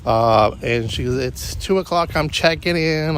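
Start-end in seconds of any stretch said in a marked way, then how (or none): 1.2-3.2 high nasal imitation of a vlogger; chirpy nasal check-in. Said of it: "She has this nasal little voice".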